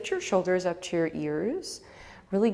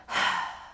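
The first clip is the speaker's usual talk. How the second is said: big sigh. Shown as a demonstration. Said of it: "and then let it go".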